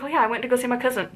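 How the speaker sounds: quick light Michigan voice with the T in "cousin"; Michigan accent. Retold or imitated. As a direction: imitate the Michigan relatives, hitting the T. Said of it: "They add a T".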